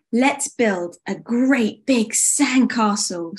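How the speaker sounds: slow, drawn-out suggestion; eager suggestion. Acted. Winter suggests sandcastle building, slow eager suggestion. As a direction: stretch out the big idea. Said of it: "suggested Winter".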